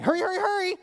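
put-on high, sweet child's sing-song; little daughter's sweet voice. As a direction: imitate a small girl saying it endearingly. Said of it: "then she says back to me".

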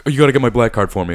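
whiny drunk imitation. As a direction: imitate the kicked-out guy demanding his card. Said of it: "he's like".

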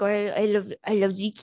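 mock French accent, halting start. Host quoting her French date on cats, French accent. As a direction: imitate a Frenchman with a thick accent. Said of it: "French people actually talk like that".

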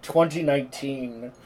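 slow, loud narrator line; lightly hammed-up prologue voice; mock movie prologue. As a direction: open like an epic trailer. Parodying Dune prologue.

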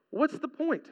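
What's the point said softly, in one breath; soft repeat. Acted. Preacher repeating his question to the congregation, quietly.

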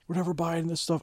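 put-on boy ranting to himself about his toy; kid tantrum. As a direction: whine it like a sulking child.

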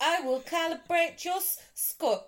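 stiff robot voice, cracking into laughter; robot voice breaking up. Acted. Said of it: "that's my robot vo- voice".

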